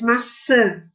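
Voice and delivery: "maçã" again, the final ã pushed through the nose; nasal vowel demo. Shown as a demonstration. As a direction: stretch the nasal ã in "maçã" for the class. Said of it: "parece que fala um pouquinho pelo nariz". (repetindo "maçã" com o ã nasalizado)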